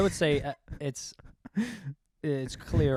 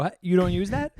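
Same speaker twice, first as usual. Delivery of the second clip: higher-pitched mock incredulous question; mocking imitation; 4 semitones higher than usual. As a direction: imitate a baffled objection. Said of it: "and you go".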